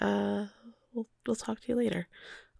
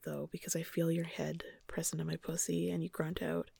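story narration. A narrator's reading. Reads erotic story aloud.

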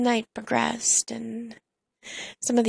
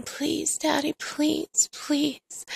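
higher, softer breathy plea; retold begging; 4 semitones higher, 3 dB quieter, much slower than usual. Narrator replays repeated plea to partner, begging softly. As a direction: plead in a small, raised voice. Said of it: "I begged him over and over again".

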